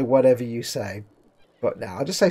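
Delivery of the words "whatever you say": sarcastic. Retold or imitated. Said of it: "I could be sarcastic and say".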